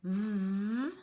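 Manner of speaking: isolated th sound, drawn out. Shown as a demonstration. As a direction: hiss the th on its own. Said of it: "our first word is gonna be the".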